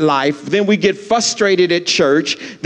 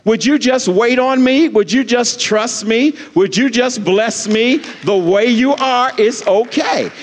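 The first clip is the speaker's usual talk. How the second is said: lightly voiced God, high and insistent; the Lord; 5 semitones higher than usual. God asking the pastor to trust, lightly voiced. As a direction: imitate a reassuring God, pressing each appeal. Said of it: "The Lord spoke to me and said".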